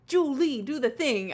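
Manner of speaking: a hint of an excited calling voice; lightly voiced cartoon call; playing Julie. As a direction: call it out high like the character. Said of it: "I'll be Julie".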